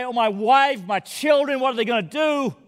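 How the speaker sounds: a touch of wailing, pleading; retold wail. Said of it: "wailed out with a cry".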